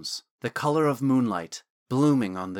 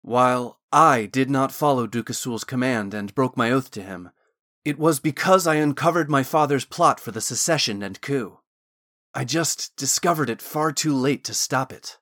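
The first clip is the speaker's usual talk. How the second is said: Thorn explaining, louder; 5 dB louder than usual. Acted.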